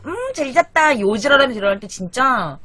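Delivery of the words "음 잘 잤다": smug refreshed sister. Retold or imitated. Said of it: "언니는 막 너무 상쾌한 얼굴로".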